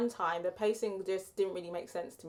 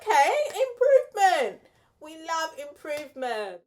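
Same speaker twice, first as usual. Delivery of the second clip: excited; 7 semitones higher, 6 dB louder than usual. Retold or imitated. Recalling her own pleased reaction.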